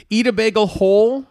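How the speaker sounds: high, loud, laughing incredulity; shocked giggle at a crazy idea; laughing disbelief. Real, not acted. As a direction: blurt it out, amazed and laughing. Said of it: "What kind of maniac would eat".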